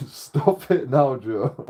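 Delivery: slow, drawn-out telling off; slow stern warning. Retold or imitated. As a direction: hold each word, firm. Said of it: "my mates were saying".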